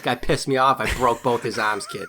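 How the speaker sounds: a hint of a hammed-up Boston tough guy; lightly put-on Boston accent, playing a thug; fake Boston accent. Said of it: "you do the worst Boston accent".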